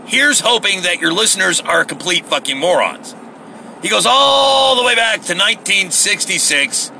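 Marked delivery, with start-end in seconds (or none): 3.8-6.9 exasperated shout. Real, not acted. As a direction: hit ALL hard in disbelief. Repeats it in outrage.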